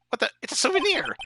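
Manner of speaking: a sudden high, loud exclamation; surprised. Acted. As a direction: blurt it out in amazement. Surprise at the bear carving.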